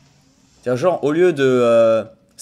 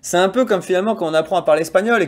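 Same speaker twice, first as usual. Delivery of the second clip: laughing. Real, not acted.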